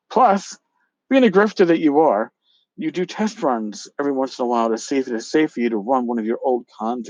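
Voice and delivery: reading the angry email aloud with some heat; hammed-up dramatic reading of an email; reading out a feud email with mock drama. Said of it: "the dramatic reading".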